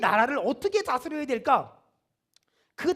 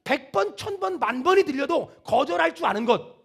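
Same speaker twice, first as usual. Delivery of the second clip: raised, emphatic pulpit delivery; full-force preaching; 4 semitones higher, 3 dB louder than usual. Real, not acted. Preacher teaching whose voice to obey, full-force preaching. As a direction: press the contrast home to the congregation.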